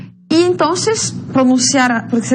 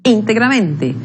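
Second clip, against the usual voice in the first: "Integramente" stressed on IN and MEN; two clear beats in "Integramente"; two stresses. Shown as a demonstration. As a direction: show both accents of "Integramente". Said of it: "são dois acentos prosódicos".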